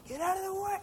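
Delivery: high-pitched comic traffic outburst; mock road rage. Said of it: "take my Christian hat off".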